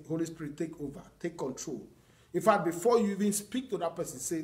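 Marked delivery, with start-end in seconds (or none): 0.1-1.9 soft, settled prayer, much quieter; calm, hushed surrender. Shown as a demonstration. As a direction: hand it over to the Spirit gently. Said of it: "You just calm down and say".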